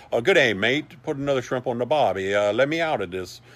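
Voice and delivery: lightly hammed Australian mate; mock Australian accent. Locked-in Australian guide asking to get out, mock accent. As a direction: put on a jokey, rough-and-ready Australian accent. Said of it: "that's my Australian accent".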